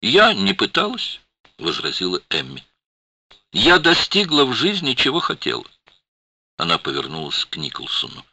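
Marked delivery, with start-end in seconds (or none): 0.0-5.6 defensive protest. A narrator's reading. Emmy protesting.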